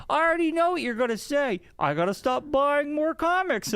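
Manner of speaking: high, hammed-up joke delivery; mock a guy milking his one gag; imitated repeat jokester. Imitating a guy hovering at the tarot table, hammed-up joke. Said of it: "And he goes".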